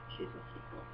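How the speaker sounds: whispered "she's a secret"; whispering about the hidden cat; whispered aside. Real, not acted. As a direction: confide it under your breath.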